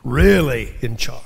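breathy whisper, no voice. Acted. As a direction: drop to a secret whisper. Boast ends in a hush.

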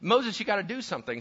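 high-pitched pleading that eases downward; hammed-up remorse, starting on a loud "oh"; mock wailing apology. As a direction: imitate a panicking crowd begging. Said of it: "so they're like".

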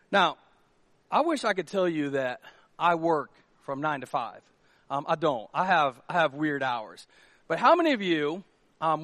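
ordinary talk, nothing marked

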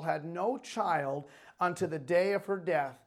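animated, emphatic Bible reading; proclaimed scripture, phrase by phrase. A narrator's reading. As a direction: read the verses out with preacher's emphasis. Reads scripture aloud to congregation.

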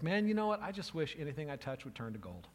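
Midas blurting out his wish; eager wish. Retold or imitated. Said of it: "And Midas is like".

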